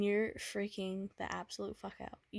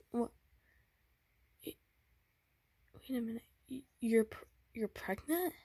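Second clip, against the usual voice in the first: put-on tender boyfriend; 3 semitones higher than usual. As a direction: coax her gently, afraid of what's coming. Boyfriend reassures pregnant girlfriend.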